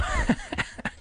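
short high giggle; amused laugh. Real, not acted. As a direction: break into a brief laugh. Reader amused by the exchange.

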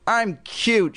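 high puppet preening; high, squeaky little boast; squeaky dummy voice. A narrator's reading. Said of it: "she made him say".

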